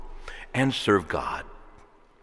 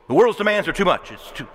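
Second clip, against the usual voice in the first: mock complaint; 5 semitones higher, 4 dB louder than usual. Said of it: "Why don't we say that about the world?".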